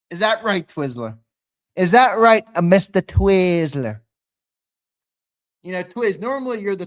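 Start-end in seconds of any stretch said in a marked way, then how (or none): 0.1-1.2 needling question to Twiz, normal level; teasing question. Real, not acted. First of repeated taunt. 1.7-4.0 loud taunt. Real, not acted. Louder repeat of taunt.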